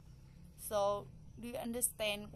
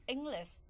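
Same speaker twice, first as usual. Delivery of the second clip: "English" raised on ENG, falling on the end; stress on first syllable; 4 semitones higher than usual. Shown as a demonstration. Teacher recapping word stress, "English" stressed on ENG. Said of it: "straight put in the first syllable".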